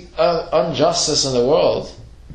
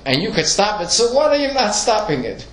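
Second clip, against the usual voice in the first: impassioned challenge; 9 semitones higher than usual. Acted. Rhetorical challenge to God.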